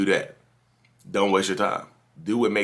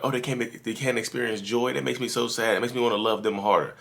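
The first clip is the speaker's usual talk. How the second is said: mock pity; 5 semitones higher than usual. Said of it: "people are like".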